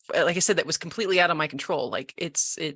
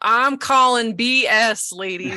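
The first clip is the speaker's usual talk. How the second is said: incredulous; 4 semitones higher, 5 dB louder than usual. Retold or imitated. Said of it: "And I was like".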